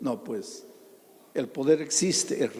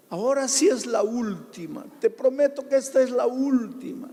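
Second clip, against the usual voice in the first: imitating the husband; 11 semitones higher, 6 dB louder than usual. Husband's tearful promise retold.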